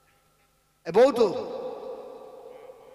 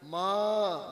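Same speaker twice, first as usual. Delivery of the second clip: loving call. Acted. Preacher showing how a child lovingly calls mother, tender drawn call. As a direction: stretch it out with affection. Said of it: "মাকে যদি খুব মহব্বতে ডাকেন".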